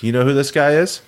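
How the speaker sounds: lightly acted question, rising at the end; casual question. Friend leaning back to ask about a guy, casual question.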